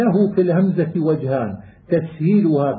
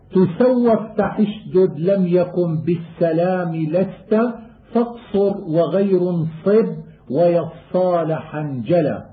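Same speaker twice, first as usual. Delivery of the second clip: poem recitation. Acted. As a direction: recite the rhymed line like a student of qira'at. Chanted verse of the poem.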